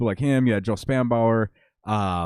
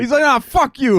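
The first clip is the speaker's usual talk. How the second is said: higher, louder jokey snap; mock snapped insult; 13 semitones higher, 6 dB louder than usual. Cohost jokingly voices Patrick, mock insult.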